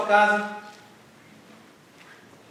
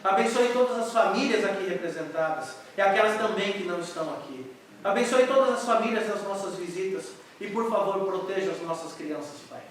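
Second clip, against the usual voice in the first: earnest prayer; 2 semitones lower than usual. Real, not acted. Pastor leading the church in prayer, reverent. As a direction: pray sincerely for the congregation.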